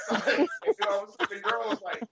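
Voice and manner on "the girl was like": normal talking voice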